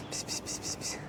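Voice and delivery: whispered psst to a cat; soft whispered psst-psst; psst calls. Real, not acted. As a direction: hiss softly to lure the cat. Hissing to call a cat.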